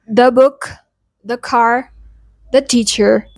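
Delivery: "the" as "thuh" in "the book, the car"; short, neutral "the" before "book", "car", "teacher"; consonant form. Shown as a demonstration. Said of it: "Other examples are".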